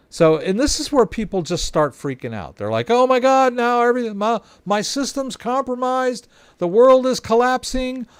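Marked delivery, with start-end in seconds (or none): 2.9-8.1 hammed-up panic, pitch way up as if the world is ending; panic mode. A scared user imitated for viewers, frantic high mock panic. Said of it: "they go into panic mode".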